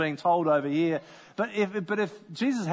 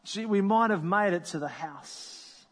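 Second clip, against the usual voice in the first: frustrated; slower than usual. Pretend. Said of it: "feeling somewhat angry, maybe frustrated".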